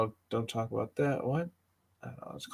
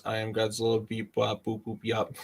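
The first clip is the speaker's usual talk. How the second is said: flat beeping robot monster voice; metallic robot voice; 6 dB quieter than usual. Pretend. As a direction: read it like a metal machine speaking. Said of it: "sound like metallic version".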